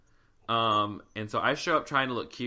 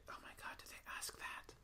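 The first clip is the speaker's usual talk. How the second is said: hushed, unvoiced aside; scandalized stage whisper; stunned whisper; 20 dB quieter than usual. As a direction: whisper it as a shocked private reaction. Acts a stunned private reaction.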